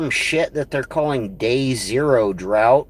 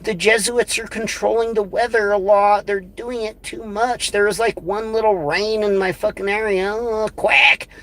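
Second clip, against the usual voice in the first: higher, whiny mock voice of a complainer; mocking whiny imitation; 5 semitones higher than usual. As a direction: ham up a higher, whiny voice to ridicule him. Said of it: "And he's like".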